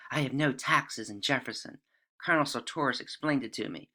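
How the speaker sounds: imitating Emily in a southern accent, soft and quick. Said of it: "Apologize for my southern accent there".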